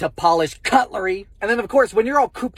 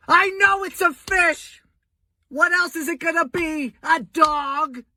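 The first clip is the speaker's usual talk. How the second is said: exasperated disbelief; 9 semitones higher than usual. Acted. Exasperated rant about tuna fish.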